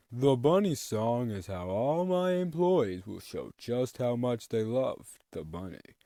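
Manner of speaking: slow, loud, grandiose boss voice; villain boss speech. Retold or imitated. Boss telling employees to love the bunny, slow and grand. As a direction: preach the bunny like a pompous tyrant. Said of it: "So then he's like".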